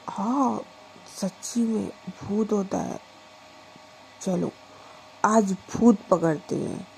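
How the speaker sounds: put-on drunk ghost hunt. Drunk Pragya hunts a ghost.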